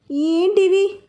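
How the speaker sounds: worried asking; mildly flustered; anxious. Acted. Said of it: "అడిగింది కంగారుగా".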